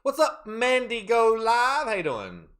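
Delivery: hollered greeting. Real, not acted. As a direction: holler hello to an arriving friend. Shouted greeting to arriving streamer.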